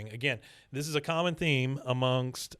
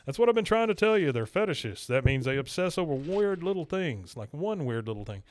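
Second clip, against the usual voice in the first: higher, faster Hank explaining; eager mock Hank; 3 semitones higher than usual. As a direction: rattle it off like a know-it-all. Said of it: "that doesn't help, Hank".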